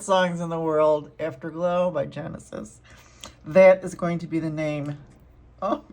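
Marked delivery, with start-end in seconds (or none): 5.6-5.8 louder, laughing through a touch of tears; moved and giggling at once; laughing emotional. Real, not acted. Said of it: "I think I'm gonna cry".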